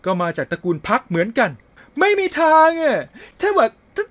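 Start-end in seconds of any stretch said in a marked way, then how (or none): 2.0-4.0 put-on higher, insistent young girl voice; a lightly voiced schoolgirl refusing to believe it; heroine voiced higher. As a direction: denial from a girl in a game. Reads heroine's lines in a voice.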